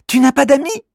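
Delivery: put-on high child voice, sympathetic; pitying little girl. Alori asking Kimamila if he has friends, pitying girl voice. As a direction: ask gently, full of pity. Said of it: "demande Alori".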